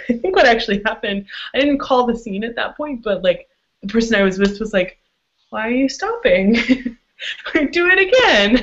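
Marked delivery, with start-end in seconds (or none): 5.5-8.6 high, insistent plea with a laugh in it; imitated eager demand. Partner urges the top to continue, imitated eager demand. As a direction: imitate a partner protesting the pause, pitched up.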